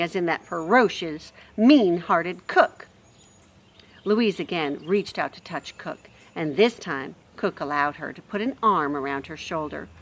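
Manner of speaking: expressive storybook reading; lively read-aloud voice; story narration. A narrator's reading. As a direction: read it like a bedtime chapter.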